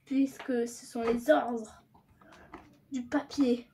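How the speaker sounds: slow, careful speech through a retainer; wearing a retainer. Real, not acted. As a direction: talk slowly around a dental retainer. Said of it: "beaucoup de mal à articuler".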